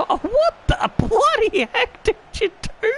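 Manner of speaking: high-pitched laughing outburst; laughing disbelief. Real, not acted. Gamer laughing at his striker's blunder, high and incredulous. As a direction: laugh through the words in disbelief.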